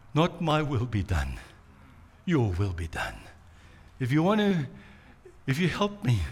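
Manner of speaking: Jesus yielding his will in quiet prayer; surrendered prayer. Retold or imitated. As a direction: give in quietly, heavy-hearted. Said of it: "rallies ... and says".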